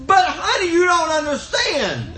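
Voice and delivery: acted-out protest; pleading husband. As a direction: plead with her, playing it up. Acted plea to his wife.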